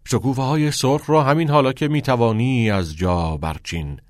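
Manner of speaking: teacher's measured repeat of a verse. Acted. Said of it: "کتینگ تکرار کرد".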